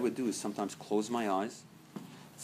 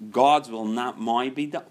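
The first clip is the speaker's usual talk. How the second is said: emphatic right way; 7 dB louder than usual. Shown as a demonstration. Contrasting two attitudes.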